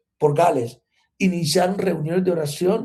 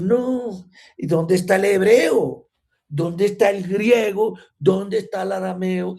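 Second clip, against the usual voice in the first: lightly mocking, scornful questions, a bit higher; mocking scholars; 3 semitones higher than usual. Preacher imitating critical scholars, mild mock scorn. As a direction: poke fun at fussy scholars. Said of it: "eruditos decir".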